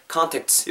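contacts finished with an audible "ts"; clear ts ending. Shown as a demonstration. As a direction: bring out the "ts" at the end of contacts. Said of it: "츠 발음 좀 더". (contacts 끝의 '츠' 소리를 살려서)

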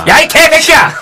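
high playful yell of outrage; mock angry shout. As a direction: yell it in fake outrage at a friend. Host yells at the writer.

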